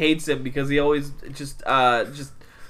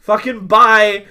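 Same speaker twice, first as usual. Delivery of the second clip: loud, higher, drawn-out excuse; mock brush-off; 5 semitones higher, 7 dB louder, slower than usual. Coworkers getting away from the preacher, mock brush-off. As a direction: stretch out an exaggerated escape line. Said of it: "eventually we were like".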